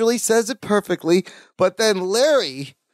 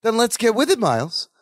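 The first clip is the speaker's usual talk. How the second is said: smug, raised then dropping on the name; 5 semitones higher than usual. Acted. Larry pulls rank on Miles from his desk, smugly. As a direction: order him along, full of self-importance. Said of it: "very smugly".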